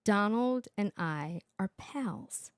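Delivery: drawn out, slow and sarcastic; slow sarcastic repeat of Joy; slow mocking quote. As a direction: spell it out slowly in disbelief. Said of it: "This is Joy Behar speaking".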